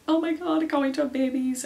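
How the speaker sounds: loud, high excited gushing; baby crazy. Retold or imitated. Two baby-crazy friends talking about babies, gushing loudly. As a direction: imitate two friends squealing over babies. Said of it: "baby crazy".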